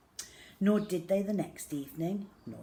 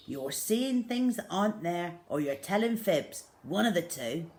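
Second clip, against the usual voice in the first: a firm, louder telling-off; stern father; 4 dB louder than usual. Acted. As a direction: scold him like a dismissive father. Father scolding the boy.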